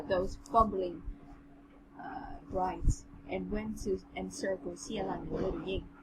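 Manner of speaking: measured, even read-aloud voice; understated storybook narration; story narration. A narrator's reading. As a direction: read the passage out steadily.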